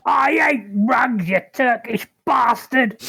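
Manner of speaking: raging shout. Acted. Raging barbarian charges rug.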